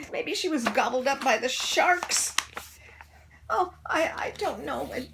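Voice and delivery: put-on high, fretful child voices; worried kids. A narrator's reading. Kids guessing what happened, high and worried. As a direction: fret and speculate anxiously.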